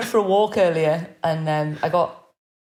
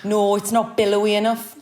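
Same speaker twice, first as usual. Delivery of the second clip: Geordie accent. Real, not acted. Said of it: "That was the most Geordie thing you've ever said".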